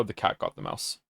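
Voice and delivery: half-whispered, breathy aside; whispered repeat. Real, not acted. Repeating the mouse news to a friend, whispered. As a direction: drop it to a whisper, like a secret.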